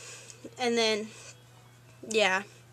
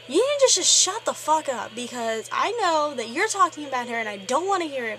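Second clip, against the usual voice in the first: angry yell; 3 dB louder than usual. Retold or imitated. Friend telling off the mean girl, angry shout. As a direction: snap at her like you've had enough. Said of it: "he went off on her".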